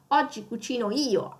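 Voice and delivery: io weighted at the end; stress on io. Shown as a demonstration. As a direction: lean on the io. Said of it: "you want to stress out".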